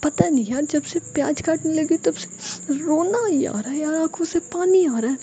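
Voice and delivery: high, teary whine from onion tears; wiping tears while explaining; mock-tearful complaint. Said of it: "अपने आंसू पोंछते हुए कहती है".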